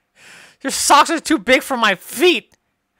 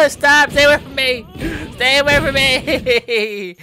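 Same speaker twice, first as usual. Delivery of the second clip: panicked shout; 3 semitones higher than usual. Acted. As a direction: shout him off in mock terror. Shouting at Secret Santa friend.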